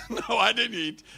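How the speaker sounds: put-on high, loud childish protest; indignant boy. Boy protesting to his mother that he didn't eat. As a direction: insist you didn't eat it, like a small boy.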